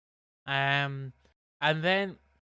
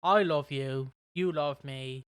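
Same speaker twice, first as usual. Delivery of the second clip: Barney rhyme; 4 dB louder than usual. Retold or imitated. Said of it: "doing a fucking Barney rhyme".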